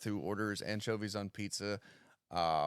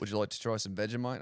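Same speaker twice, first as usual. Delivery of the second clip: quick, badly faked Australian accent; a weak go at an Australian accent; faster than usual. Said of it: "Worst Australian accent ever".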